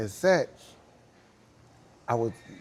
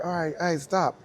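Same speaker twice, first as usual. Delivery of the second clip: raised mock shout, higher; retold shout to stop; 6 semitones higher, 4 dB louder than usual. Crew calling stop to the dancers, a mild mock shout. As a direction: call the dancers to stop, louder.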